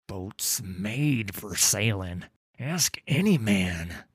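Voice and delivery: wheezy, slow, teeth chattering; a cold sailor wheezing out the words. Acted. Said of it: "Tudor wheezed through chattering teeth".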